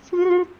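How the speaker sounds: high, drawn-out little "floop"; imitated floating noise. Player showing how he floats down like a mage, imitated noise.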